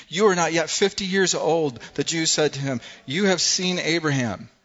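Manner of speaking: loud and high, incredulous; the Jews scoffing at Jesus, loud and incredulous; scoffing outrage. Acted. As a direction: sneer it at him in disbelief.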